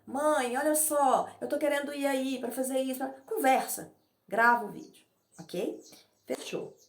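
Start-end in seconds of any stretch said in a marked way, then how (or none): 0.0-3.0 lightly voiced, higher and louder call to mom; like sending mom a casual audio; a hint of a cheerful daughter calling her mother; chatting to mom. Shown as a demonstration. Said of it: "vai falar".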